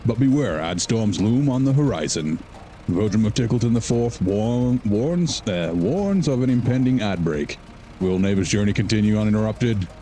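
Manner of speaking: hammed-up movie trailer announcer. Reading a chat recap to stream viewers, hammed-up movie trailer voice. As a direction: sell it like a blockbuster teaser. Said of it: "My attempt at a movie guy voice".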